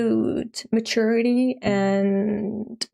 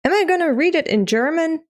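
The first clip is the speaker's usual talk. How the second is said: high-pitched incredulous question; playful dismay; 8 semitones higher than usual. Real, not acted. Streamer facing a manga chapter in German, playfully dismayed. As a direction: wail it lightly in mock dread.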